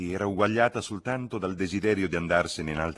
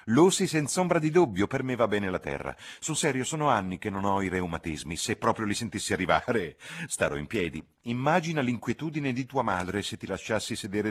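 a touch higher, self-sacrificing fuss; fussy insistent cousin; 5 semitones higher, 3 dB louder than usual. Acted. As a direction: insist sweetly on sitting in the wet. (cugina premurosa e insistente)

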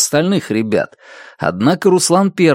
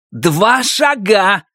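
urgent order; 8 semitones higher, much slower than usual. Acted.

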